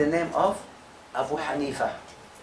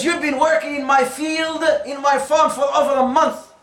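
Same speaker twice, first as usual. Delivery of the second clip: upset scolding; 6 semitones higher than usual. Retold or imitated. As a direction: scold the worker, fed up. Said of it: "Now Nuh got really upset".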